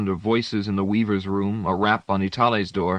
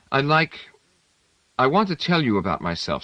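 with intensity; 5 semitones higher than usual. A narrator's reading. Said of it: "He spoke with intensity".

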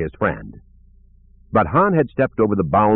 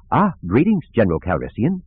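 C-3PO; 3 semitones higher than usual. Acted. Droid C-3PO speaks.

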